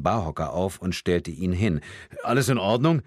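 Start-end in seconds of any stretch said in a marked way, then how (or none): 2.2-3.0 slightly raised, louder questioning voice; lightly voiced man asking with concern. A narrator's reading. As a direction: call over to check she's okay. Man checks on woman.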